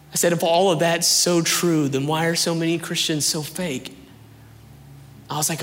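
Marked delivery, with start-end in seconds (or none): 0.3-4.0 raised, higher-pitched questioning; indignant challenge. Retold or imitated. Doubter challenging his friend about Christians, indignant. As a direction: lean hard on the accusation.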